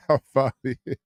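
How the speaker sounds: I finally hit, through a laugh. Real, not acted. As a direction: laugh while saying it. Repeats laughing.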